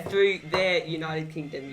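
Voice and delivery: slow, deliberate read of the phrase; slowly quoting. Retold or imitated. Reading the scammer's email aloud, slow and deliberate. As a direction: read the odd wording slowly and clearly. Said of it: "No, yeah".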